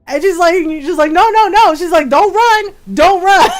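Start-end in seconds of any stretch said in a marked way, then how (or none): 1.1-1.7 louder, higher rapid objections, acted out; retold yelling. Girlfriend running after the brother, mock yelling. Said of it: "like, yelling". 2.1-3.5 higher, louder warning called out; retold yelling. Girlfriend chasing the brother who tricked them, mock yelling. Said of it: "like, yelling".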